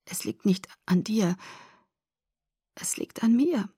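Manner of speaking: soft whisper. A narrator's reading. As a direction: whisper the cliché. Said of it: "flüsterte ich". (leise geflüstert)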